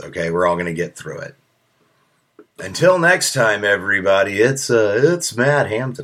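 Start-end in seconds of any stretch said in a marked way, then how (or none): 2.6-6.0 a light hint of a radio DJ sign-off. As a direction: sign off like a radio host, only half committed. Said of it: "I feel like doing a radio D J voice".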